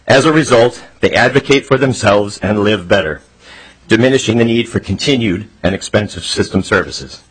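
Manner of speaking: breathless from running; out of breath. Real, not acted. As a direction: talk while catching breath. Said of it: "I'm kinda out of breath from running".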